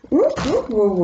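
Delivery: high surprised hoot of Southern-tinged astonishment; a sudden high ooh as cards jump out; surprised ouh. Real, not acted. Reader startled by cards jumping from the deck, high surprised hoot.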